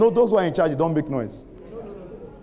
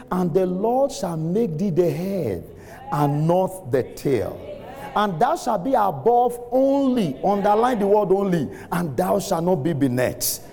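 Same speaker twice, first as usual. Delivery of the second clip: scripture declamation; 4 semitones higher, slower than usual. Real, not acted.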